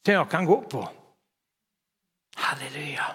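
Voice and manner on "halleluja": a whispered, much softer halleluja; whispered praise. Real, not acted. Pastor to congregation after a point, whispered halleluja. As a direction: let it slip out as a whisper.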